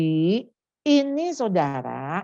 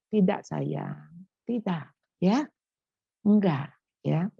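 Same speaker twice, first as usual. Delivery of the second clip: gentle mother's no; 2 semitones lower than usual. Retold or imitated. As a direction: say no tenderly but firmly. Mother refusing child gently.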